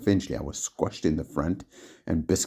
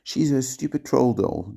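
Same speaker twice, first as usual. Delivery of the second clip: higher, scornful disgust; 7 semitones higher, 4 dB louder than usual. A narrator's reading. Giles scorning Kelly's doll, disgusted. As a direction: sneer at the silly doll. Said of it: "Giles said disgustingly, disgustedly".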